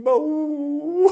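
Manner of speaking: very high, loud boo; jump-scare the kids; playful boo. Acted. Teller jumps at listeners.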